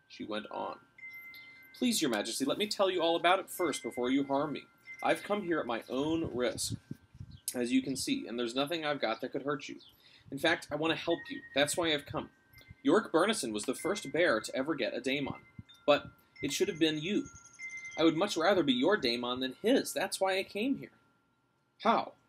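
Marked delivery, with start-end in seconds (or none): 1.7-20.9 pleading. Acted. Lyra pleading with king. 21.8-22.1 breathless sharp question. Acted. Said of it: "he said breathlessly".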